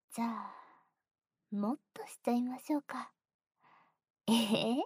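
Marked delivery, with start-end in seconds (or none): 1.5-3.1 sly ear whisper; teasing whisper. Acted. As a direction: whisper the offer mischievously.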